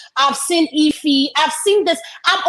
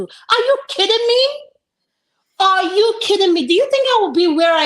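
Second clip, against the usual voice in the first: incredulous; 6 semitones higher than usual. Real, not acted. Indignant disbelief at panelist.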